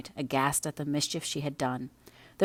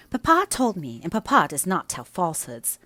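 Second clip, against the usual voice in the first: pert; 3 semitones higher, 6 dB louder than usual. Acted. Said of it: "she answered pertly".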